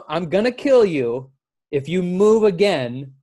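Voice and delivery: a cop with his gun drawn threatening the driver. Retold or imitated. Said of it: "He went from".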